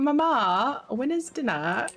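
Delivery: very slow, fake, put-on Australian accent. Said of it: "using an accent now".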